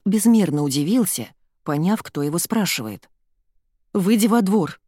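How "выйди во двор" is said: demanding. A narrator's reading. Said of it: "потребовала Ира".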